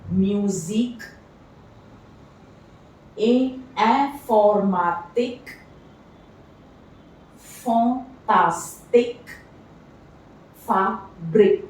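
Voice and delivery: "Music", "informatic", "fantastic", "Fabric" ending in eek, with "fantastic" drawn out slowly; teacher sounding out IQUE words; IQUE as eek demo. Shown as a demonstration. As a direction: stretch the eek ending on each word. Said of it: "gives us the sound of eek".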